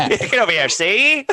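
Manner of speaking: mock old-time wise-guy patter; playful newsboy bit, jumping high at the end; old-timey newspaper salesman. Co-host joining the newsboy bit, old-timey hawker. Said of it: "I sound like an old timey newspaper salesman".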